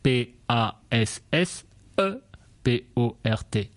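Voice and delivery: letters P A S S E P O R T one by one; spelling it out. Shown as a demonstration. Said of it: "it is spelled".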